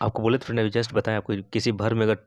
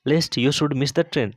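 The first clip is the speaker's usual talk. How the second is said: slow dictation; 2 semitones higher, much slower than usual. Shown as a demonstration. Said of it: "teacher models English sentence slowly".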